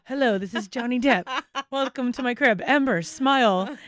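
lightly voiced TV house-tour greeting; celebrity house-tour host. Imitating a TikTok skit of Cribs, mock host. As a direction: imitate a star presenting his home. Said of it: "like, cribs, like".

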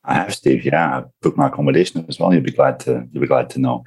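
out of breath after a hard cycle; speaking while still catching breath. Real, not acted. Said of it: "Sorry if I'm a little out of breath".

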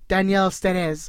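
put-on Daniel Sturz in a light Spanish accent, slow. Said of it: "pronouncing it in, like, a Spanish accent".

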